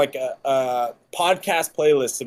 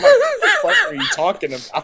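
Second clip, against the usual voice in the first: much higher, laughing incredulous squeal; laughing at a coach's strange advice; laughing disbelief. Retold or imitated. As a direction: squeal it out in mock confusion. Reacting to the trainer's Twitter advice.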